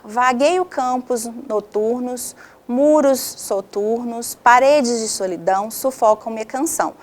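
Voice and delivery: measured verse recitation with pauses; slow opening lines, each phrase set apart; poem reading. Shown as a demonstration. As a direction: read the verse out deliberately for a class. Reads a poem aloud.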